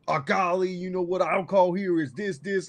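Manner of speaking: mock Philip Rivers. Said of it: "could you imagine Nance and Rivers".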